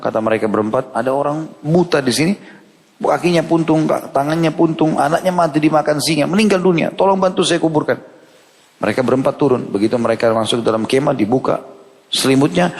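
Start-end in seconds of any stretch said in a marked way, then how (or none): 0.9-8.1 urgent plea. Acted. Young man pleads with riders.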